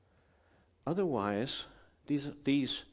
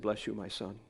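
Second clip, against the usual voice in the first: priestly blessing; 3 semitones lower, 5 dB quieter than usual. Retold or imitated. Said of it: "and I said".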